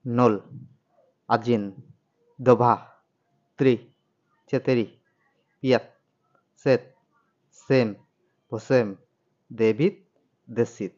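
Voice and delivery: Russian counting, each number stretched; slow Russian-style count, each word pulled long; drawn out like Russians. Shown as a demonstration. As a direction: count nol to desyat with a long Russian drawl. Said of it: "টেনে টেনে বলি, যেমন রাশিয়ানরা বলে".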